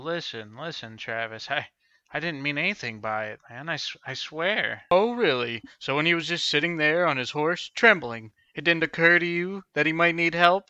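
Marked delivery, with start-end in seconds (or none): 0.0-4.8 nervous pleading. Acted. Pleading under threat. 8.8-10.6 louder accusing questions; angry demand. Acted. Angry interrogation.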